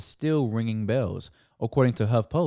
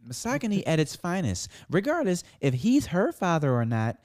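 higher put-on girl voice; 4 semitones higher than usual. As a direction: read the comment like a girl. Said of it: "Do it in a girl voice".

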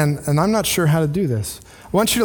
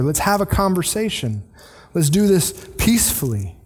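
gentle invitation; 3 semitones higher than usual. Retold or imitated. Pastor voicing a believer inviting a struggling member, gently. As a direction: lean in and reassure them. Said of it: "It's an invitation to lean in".

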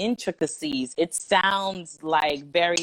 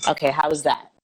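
stage voice; 2 semitones lower, 8 dB louder than usual. Shown as a demonstration. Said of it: "I'm just going to use my stage voice".

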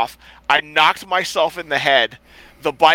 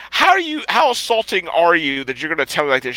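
hammed-up offended uncle, jumping high on the first words; a drunk uncle faking offence at the lady, mock indignant; 3 semitones higher than usual. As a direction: play the wronged man with mock outrage. Uncle acting offended in retold story.

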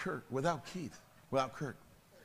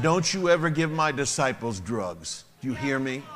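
stern warning; 4 dB louder than usual. Retold or imitated. Pastor threatens the drug dealer.

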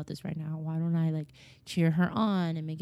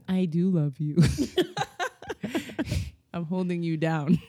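laughing mock reassurance. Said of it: "she'd just be like".

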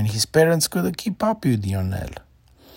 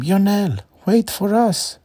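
put-on high, loud calling after the boy; parents yelling; 12 semitones higher, 6 dB louder than usual. A narrator's reading. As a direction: shout after a child running off. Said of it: "yelling after him".

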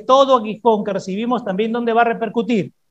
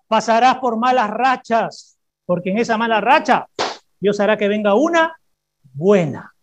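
preaching; 3 dB louder than usual. Acted. Preacher promising the congregation a good season, emphatic. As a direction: drop onto buena at the end.

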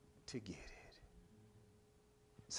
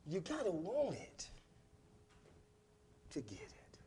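fading to a whisper; 14 dB quieter than usual. Acted. Refrain dropping to whisper.

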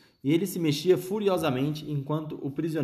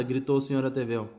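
usual speaking voice

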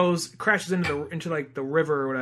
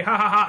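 mock evil laugh; 3 semitones higher, 4 dB louder, faster than usual. Shown as a demonstration. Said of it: "Join with me".

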